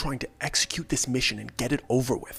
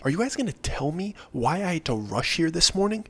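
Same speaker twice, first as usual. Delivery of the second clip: frustrated; 4 semitones higher than usual. Retold or imitated. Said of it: "he says to us very frustratedly".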